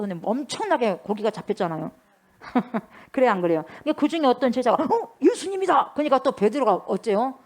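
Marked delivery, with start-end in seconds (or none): 4.8-5.9 startled recognition. Acted. Disciple spotting Jesus from the boat, startled recognition. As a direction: gasp of discovery, pitched much higher.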